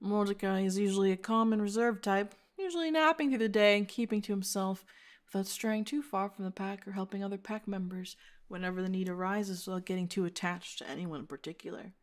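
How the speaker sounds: soft, calm profile reading; subdued storyteller voice; hushed narration. Acted.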